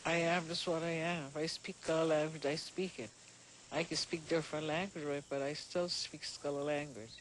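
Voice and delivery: Sea Island Gullah speech; Gullah accent. Real, not acted. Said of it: "Benjamin and Janie's gullah".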